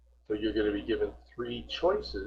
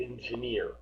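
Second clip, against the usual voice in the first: "Engineer" said softer, accent on final -neer; stress on last syllable; 7 dB quieter than usual. Shown as a demonstration. Teacher showing where the accent falls, "Engineer" stressed on the end. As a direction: softly model "Engineer", weight on the last syllable. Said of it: "This is where the accent would".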